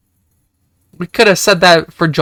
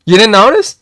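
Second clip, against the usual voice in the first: higher mock taunt; 5 semitones higher, 4 dB louder than usual.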